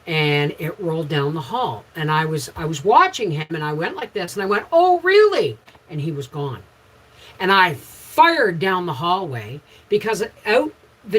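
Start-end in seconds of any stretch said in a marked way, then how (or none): 4.7-5.6 high, loud exclamation; startled reaction. Retold or imitated. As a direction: blurt it out, pitched way up. Acts out her startled reaction.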